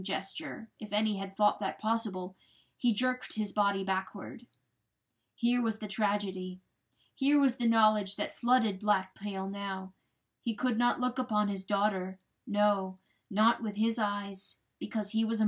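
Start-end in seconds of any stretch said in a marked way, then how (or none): none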